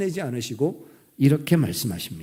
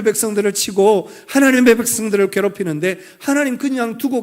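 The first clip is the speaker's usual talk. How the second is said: higher-pitched, indignant challenge to God; remonstrating; 4 semitones higher than usual. Acted. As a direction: press God for an answer, as if arguing. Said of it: "따지듯이 묻습니다".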